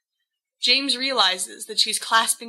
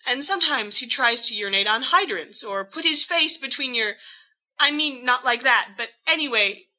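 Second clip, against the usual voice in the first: higher, nervous babbling cover story; flustered gabbling; 4 semitones higher than usual. Acted. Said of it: "gabbles James".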